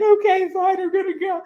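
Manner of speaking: high, put-on voice, giving in reluctantly; grudging give-in. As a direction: cave in with a sulky okay fine. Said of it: "And I was like".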